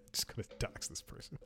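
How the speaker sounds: a quick joking whisper to the camera; whispered aside. Real, not acted. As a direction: drop to a breathy conspiratorial aside.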